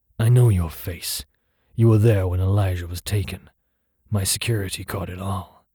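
gravelly, gruff voice, threatening and overly confident. Reading the line of an unseen voice confronting a poor liar: gravelly, gruff, threatening voice. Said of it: "A gravelled, gruff, and overly confident in its threat, voice. ... A gravelled, gruff".

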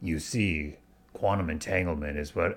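low, flat, gruff, droning narrator voice. Imitating an audiobook expert character's voice: imitating gruff flat low voice. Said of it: "reading a Wikipedia page in a weird voice".

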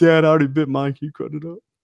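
put-on little kid voice. You retell your son asking his dad to cut up his apple, imitating your son's voice. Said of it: "That's me doing my son's voice".

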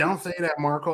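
ordinary talk

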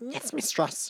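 soft, high, little tin robot dog voice. Describing a cute little tin dog from a story, K-9 tin dog voice. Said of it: "He'd be like that, fully".

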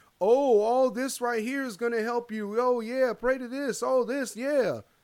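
mock, very high, derisive, taunting jeer. Retelling how the king of Tyre was mocked: imitating a mocking taunt. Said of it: "he mocked the king of Tyre at that point and was like".

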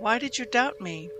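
ordinary delivery

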